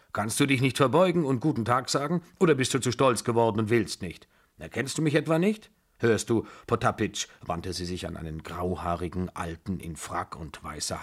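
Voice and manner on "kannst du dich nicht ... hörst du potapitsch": lightly voiced scolding old lady, slightly raised pitch; a touch of the domineering grandmother taking offence; imperious old aunt.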